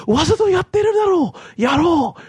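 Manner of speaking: high-pitched mock outraged yell in Japanese; comic, high strained outburst; laughing retold shout. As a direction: imitate a man shouting out through his laughter. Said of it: "and he shouts out".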